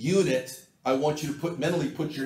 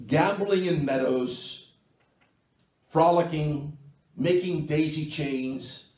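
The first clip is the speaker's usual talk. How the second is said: sarcastic. Shown as a demonstration. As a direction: lay on the understated sarcasm, phrase by phrase. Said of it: "forgive me for being sarcastic".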